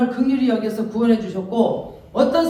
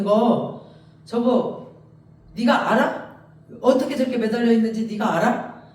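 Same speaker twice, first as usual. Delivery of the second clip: insistent questions, pitch lifted; God challenging Job; 3 semitones higher, 4 dB louder than usual. Acted. Preacher as God asking Job who made nature, insistent. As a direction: hammer each challenge home, lightly in character. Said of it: "하나님이 막 말해".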